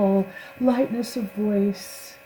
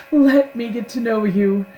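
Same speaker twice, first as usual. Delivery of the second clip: louder, hammed-up earnest plea; milk it like a soap star; overdramatic; 4 semitones higher, 6 dB louder than usual. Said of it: "Over dramatic".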